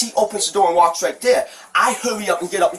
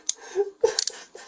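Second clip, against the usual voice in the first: whimpering sob; 10 semitones higher, 8 dB quieter than usual. Real, not acted. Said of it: "crying out of nowhere".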